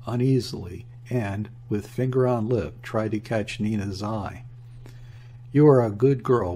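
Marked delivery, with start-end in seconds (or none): none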